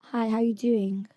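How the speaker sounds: slow, careful copy of a British accent. Shown as a demonstration. Guest copying the host, careful British accent. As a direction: echo it slowly in a British accent. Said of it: "Try it, try it".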